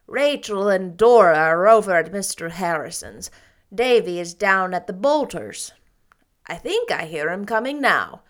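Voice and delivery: matter-of-fact aunt; plain-spoken older woman; Marilla's voice. Acted.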